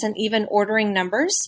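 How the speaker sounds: ordinary talk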